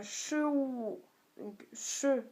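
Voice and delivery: "che" lifted upward, "ou" dipping after it; tone demonstration. Shown as a demonstration. Teacher showing tones, rising "che", dipping "ou". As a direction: raise "che", then dip "ou". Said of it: "donc qui monte".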